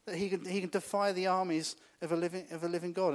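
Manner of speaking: scornful challenge. Retold or imitated. David scoffing at Goliath's defiance of God, mock indignant. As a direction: sneer at the giant's nerve. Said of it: "That was kind of David's, David's view on it".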